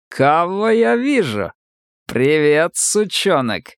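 high, slow, sneering drawl; mocking sergeant greeting. A narrator's reading. Старослужащий ехидно приветствует новобранца Сомика, насмешливо. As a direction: greet him like a cocky bully.

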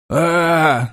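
short raw cry of pain; pained yell. Acted. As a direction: yelp out in sudden pain. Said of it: "заорал раненый". (крик боли)

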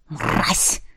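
whispered hatred; breathed curse. Acted. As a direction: exhale the insult in disgust. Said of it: "выдохнул он".

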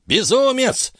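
put-on high, slow, shrill-pitched outcry of the old man; cried out. A narrator's reading. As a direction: cry out at the fool in scorn. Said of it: "вскричал Альтатас".

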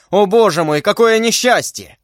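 high-pitched wail of grief; despairing cry. A narrator's reading. Lord tearing his hair cries out in despair. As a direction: cry out at the calamity. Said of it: "кричал он".

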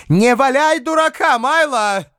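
high, loud sharp rebuke. Acted. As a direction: snap it at him, cutting. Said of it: "сказала она резким тоном".

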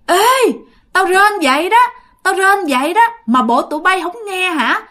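high-pitched spooky ghost voice; creepy ghost woman. Acted. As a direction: call out like an eerie ghost demanding to be heard. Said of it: "lúc đó cái giọng bà thấy ghê lắm".

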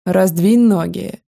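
slow hoarse order; hoarse command. Acted. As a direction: rasp the command out slowly. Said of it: "хрипло скомандовали". (медленный хриплый приказ)

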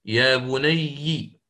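يا بني بكسر الياء مطولة ببطء شديد; انطق يا بني بالكسر متمهلا. Shown as a demonstration. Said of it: "بالكسر في ياء الإضافة".

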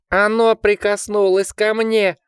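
piercing terrified shriek. A narrator's reading. Richard clings to Jack, shrieking in terrified panic. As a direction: shriek it out in pure terror. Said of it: "пронзительно взвизгнул он".

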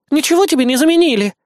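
high, fast, bashful brush-off; a bit shy. Acted. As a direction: shyly wave it away, quick. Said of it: "слегка застенчиво ответила она". (высоко, быстро и застенчиво)

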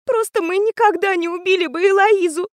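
high tearful voice on the edge of sobs; sobbing. A narrator's reading. Alma protesting to the teacher, high and tearful. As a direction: plead it through a sob. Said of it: "всхлипнула Альма".

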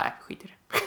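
quiet, voiceless brush-off; dismissive. Retold or imitated. Imitating lazy subtitlers skipping the Swedish, dismissive.

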